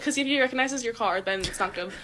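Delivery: ordinary talk, nothing marked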